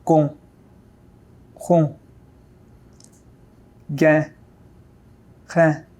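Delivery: ran, ron, rein with a French throat r; uvular r. Shown as a demonstration. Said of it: "Listen and repeat after me".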